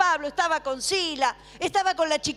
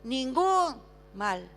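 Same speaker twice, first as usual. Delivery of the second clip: slow, drawn-out proclamation, mildly raised voice; crying out; much slower than usual. Retold or imitated. Preacher quoting Paul's cry to the jailer, measured crying out. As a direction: stretch each word like a measured call. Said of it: "clamó a gran voz, gritó".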